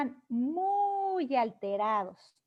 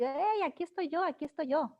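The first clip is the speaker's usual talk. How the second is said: jealous puppy voice; 3 semitones higher than usual. Retold or imitated. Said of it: "el perrito empieza a decir".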